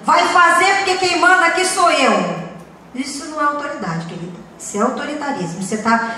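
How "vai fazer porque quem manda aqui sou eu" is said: bossy authoritarian. Retold or imitated. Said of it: "aquele ar de autoritário".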